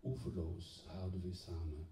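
measured declamation with deliberate phrasing; poem recital. Acted. Poet addresses the president about war in Iraq, formal poetic declamation. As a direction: recite it as a solemn open letter in verse.

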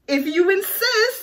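high, loud hyena answer. Acted. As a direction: puff up like a cocky hyena.

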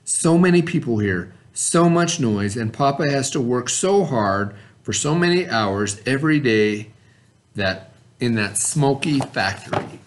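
put-on reading a children's story, gently paced; story read aloud. Teacher reading a story about Marie to the class, storybook voice.

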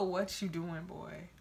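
put-on mumbled, offhand boy's text; mock lazy text. Quoting the boy's lazy text, mumbled and offhand. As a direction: toss it off lazily like a bored text. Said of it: "I hate a".

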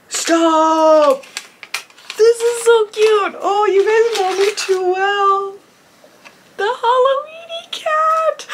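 high, slow, drawn-out squeal; overjoyed squeal. Real, not acted. Unboxer finds a Halloween cat print from followers, overjoyed squeal. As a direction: gush in high delight, stretching the words.

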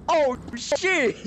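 surprised exclamation. Real, not acted. Sudden moment in game.

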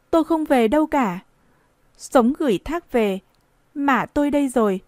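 put-on stubborn young woman. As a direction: dig in, refuse to leave. Nguyệt refuses to go home. (cô gái bướng bỉnh từ chối)

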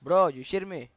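loud broken English in a put-on Arabic accent; troll a stranger as a loud Arab gamer; fake Arabic accent. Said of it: "I'm Arabic". (ψεύτικη αραβική προφορά, δυνατά)

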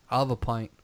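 pint said as "poynt", British accent. Shown as a demonstration. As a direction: order a pint like a British pub regular. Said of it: "a pint's gonna be in an accent".

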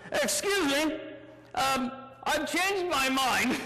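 lightly voiced British skipper; a hint of polite British captain. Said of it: "Captain's British".

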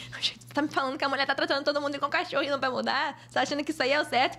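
fast, incredulous retort; retold indignation. Model challenging the assistant over mistreatment, rapid indignant questioning. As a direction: fire off disbelieving questions quickly.

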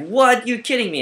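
high, indignant disbelief; outraged disbelief. Retold or imitated. Customer told it's the shortest line, outraged disbelief. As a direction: squeal in mock outrage. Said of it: "she just stormed out of the store, angry".

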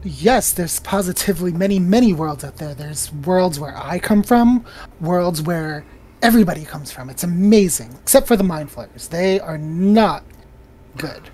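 posh, measured explainer. Acted. Gak telling Kwan about many worlds, posh voice. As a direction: lecture in a posh accent, dropping on the last word. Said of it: "in a very posh voice".

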